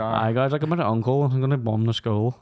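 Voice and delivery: put-on harsher Northern Irish accent. After a friend asks for it harsher, mocking an old schoolmate's Northern Irish accent. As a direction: lean harder into the Northern Irish accent, slowing the last line. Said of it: "that's my best, like, Irish accent".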